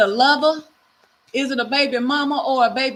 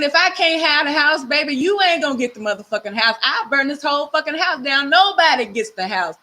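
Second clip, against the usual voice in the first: louder, higher mock threat; acted hostile threat; 3 semitones higher, 5 dB louder than usual. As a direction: voice a possessive ex laying down an ultimatum. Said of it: "You know, maybe they're saying".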